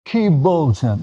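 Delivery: a hint of an old Bengali lady's puzzled question; sister asking in Bengali. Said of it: "And she's like".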